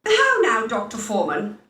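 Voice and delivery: offended retort. Acted. Lady takes offence at the doctor.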